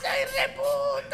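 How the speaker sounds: slow, very high squealed shout; hammed-up high yell; high mock scream. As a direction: shriek it high and drawn out. Partner joins the yelling game.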